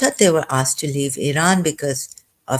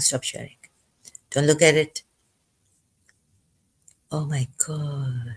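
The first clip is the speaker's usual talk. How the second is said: choked up, starting to cry, quieter; 4 dB quieter than usual. Looking at an old photo of a principal, starting to cry. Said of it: "I'm going to start crying".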